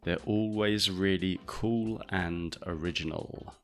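slow clear reading. Shown as a demonstration. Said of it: "here he says it very fast and relaxed".

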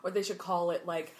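imitating a sassy know-it-all; mock-indignant sass, landing hard on the last words; sassy retelling. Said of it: "sassy about it".

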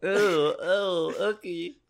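high, squeamish ew; disgusted ew. Retold or imitated. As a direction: recoil in mock disgust. Acting disgusted listeners.

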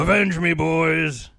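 loud, strained dying cry; overacted death scene. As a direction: shout it as your last words. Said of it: "Red Dawn".

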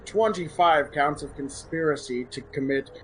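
stern executioner reading charges. Acted. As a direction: proclaim the sentence to the crowd. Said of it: "that was your best character voice yet".

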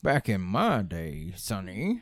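put-on slow, creaky old timer; lightly voiced grumpy grandpa; very old man. Teasing friends about being old.

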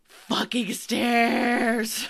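loud, drawn-out winded groan; out of breath. Acted. Player's character reaching the top of the stairs, out of breath. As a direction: heave the words out, exhausted and exasperated. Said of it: "I'm out of breath. I'm just like".

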